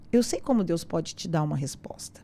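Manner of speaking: a soft, breathless whisper, as if telling a secret; whispered quote. Retold or imitated. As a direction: whisper the teacher's words under your breath. Teacher's advice quoted in a hush. (sussurrando a fala do professor)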